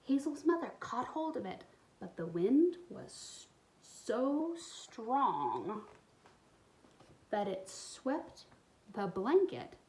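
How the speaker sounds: put-on expressive read-aloud for young kids; storybook reading. A narrator's reading. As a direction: tell the story warmly to little listeners. Reads picture book aloud.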